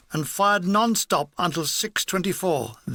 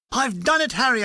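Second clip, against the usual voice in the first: excited; 4 semitones higher than usual. Retold or imitated. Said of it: "rushing into the command post".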